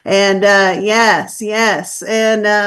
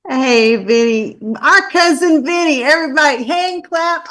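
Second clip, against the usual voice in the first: excited greeting; 3 semitones higher, 3 dB louder than usual. Real, not acted. Greeting host with enthusiasm.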